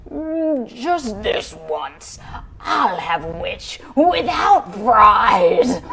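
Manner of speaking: slow, gloating dragon. Acted. Dragon about to eat the witch, slow and gloating. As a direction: savour each word, slowly.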